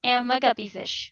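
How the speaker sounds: cheeks squished, muffled words. Shown as a demonstration. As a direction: talk with cheeks pressed together. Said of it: "squish your cheeks together".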